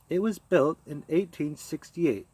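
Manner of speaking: snapped. Acted. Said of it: "she snapped at them".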